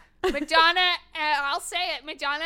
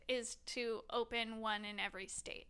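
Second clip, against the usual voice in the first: whispering; 4 semitones lower, 10 dB quieter than usual. Real, not acted. Sudden hushed aside during chat.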